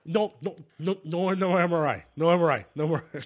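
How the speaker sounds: a hint of a panicking man; panicked Eddie.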